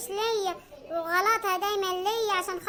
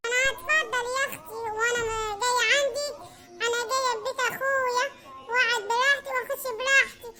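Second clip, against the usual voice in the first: sister-in-law voice. Acted. Sister Suad snapping back at Sawsan at the door, offended sister-in-law voice. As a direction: play the offended sister who barges in.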